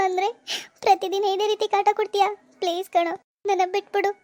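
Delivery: weary, weepy protest; acted crying plea; tearful pleading. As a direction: beg him through tears to stop. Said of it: "ಅಳೋದ್ ನೋಡಕ್ಕಾಗ್ತಿಲ್ಲ".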